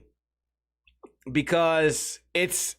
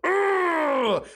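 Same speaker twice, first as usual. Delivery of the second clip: high disgusted ugh; disgusted groan; 9 semitones higher than usual. Retold or imitated. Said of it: "They think that I wake up every day and I go".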